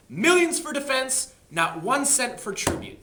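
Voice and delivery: loud, slow rallying slogan; rallying cry. Retold or imitated. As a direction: proclaim it like a battle cry.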